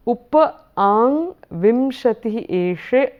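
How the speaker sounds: verse words said separately; one word at a time, with small pauses; careful teaching breakup of Sanskrit words; broken up. Shown as a demonstration. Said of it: "the breakup of the sound".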